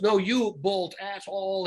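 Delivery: mild mock yell, drawn out; slow, stretched-out insult in a half-hearted yell; retold scream. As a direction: act out a yell without real volume. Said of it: "He was screaming".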